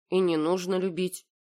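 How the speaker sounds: ordinary delivery, nothing marked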